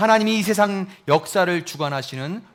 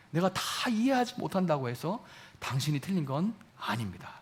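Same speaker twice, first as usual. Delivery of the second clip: softer, with 이해하지 gently weighted; soft confession; 3 semitones lower, 10 dB quieter than usual. Shown as a demonstration. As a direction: say it quietly, like a confession. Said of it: "이런 얘기예요".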